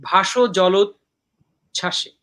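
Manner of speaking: slow "ভাসো জলোচ্ছ্বাসে", parted into phrases; verse by feet. Shown as a demonstration. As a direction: pause before the last foot of "জলোচ্ছ্বাসে". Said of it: "এই ছাসেটা হলো একটা ভাঙা পর্ব".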